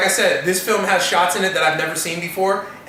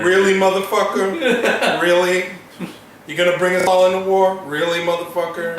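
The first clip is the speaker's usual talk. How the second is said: mock incredulity. Challenging Churchill over bringing us into war, mock incredulous.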